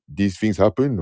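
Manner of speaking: lightly imitated low-voiced friend; friend's bass voice. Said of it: "that bass in the voice".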